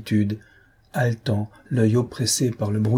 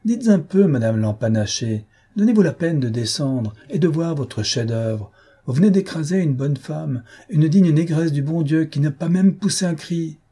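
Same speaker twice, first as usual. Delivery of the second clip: raised, higher voice scolding the lady from the box; indignant coachman's rebuke; 6 semitones higher than usual. Acted. Coachman scolding the lady who ran someone over, indignant and raised. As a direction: call her out, outraged, for the woman run over.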